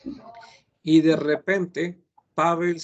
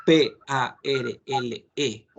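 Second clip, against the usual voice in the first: letters P A R L E said slowly one by one; spelling out; much slower than usual. Shown as a demonstration. Teacher spells the French verb slowly for the class. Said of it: "Si escribo".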